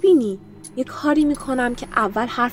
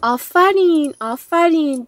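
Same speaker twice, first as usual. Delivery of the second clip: mock praise; 6 semitones higher, slower than usual. Villain praising mockingly.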